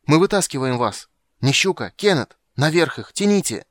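high, loud urgent orders; excited, forceful high yelling; shouting from above. A narrator's reading. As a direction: shout commands to a hauling team. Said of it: "крикнул сверху Лютик".

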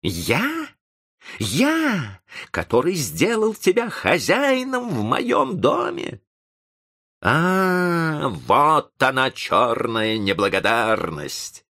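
high, indignant tirade. A narrator's reading. Professor rebukes the ungrateful young man, raising his voice in anger. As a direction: raise the voice and hammer out the grievance. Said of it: "повышая голос".

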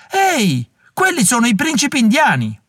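high shouted call, mildly voiced; coarse yell from the stalls. A narrator's reading. Heckler in the gallery spotting the princes, mock rowdy yell. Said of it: "Un urlo sguaiato piovve dall'alto".

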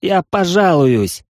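hoarse, slow desperate cry. A narrator's reading. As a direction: rasp it out in despair. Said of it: "от отчаяния прохрипел".

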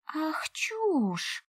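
an enraged hissed whisper; furious. A narrator's reading. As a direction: spit it out in a fury, whispering. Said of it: "взъярилась я".

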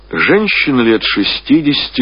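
ordinary delivery

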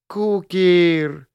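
high wheedling cry of his name; "Кукер!" drawn out high and begging; pleading. Acted. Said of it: "большие и умоляющие глаза".

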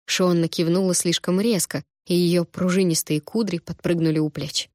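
ordinary delivery, nothing marked

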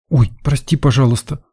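put-on high-pitched girlish "oops" apology; startled cry. A narrator's reading. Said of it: "вскрикнула Лена". (испуганно ойкнуть высоким девичьим голосом)

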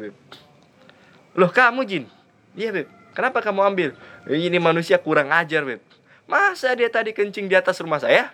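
a wronged father defending his anger; indignant jinn. Acted. The jinn tells the Habib why he took revenge, indignant.

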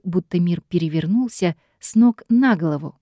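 ordinary delivery

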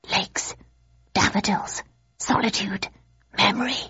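soft, breathless whisper that rises; excited whisper. A narrator's reading. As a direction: hiss the words out eagerly like tiny worms. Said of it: "whispered the worms excitedly".

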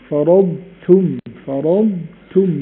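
slow فرضتم, ض fully sounded before ت; slow clear dad. Shown as a demonstration. Teacher demonstrating the sound, slow careful. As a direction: stretch فرضتم so ض is heard. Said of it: "اسمعوا الصوت كده لو سامعينه".

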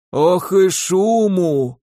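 slow, creaky grumbling granny; old woman voice. A narrator's reading. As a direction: grumble like a cranky old crone.

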